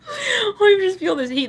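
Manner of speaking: high, squeaky words through laughter; real giggling fit while talking; helpless laughter. Real, not acted. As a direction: laugh so hard it nearly sounds like crying. Cracking up mid-reading.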